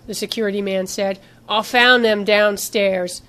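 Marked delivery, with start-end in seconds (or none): 1.5-3.2 "downstairs" said slowly with slight weight; slight emphasis on downstairs. A narrator's reading. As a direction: lean lightly on the last word, "downstairs". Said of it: "put a slight emphasis on the last word".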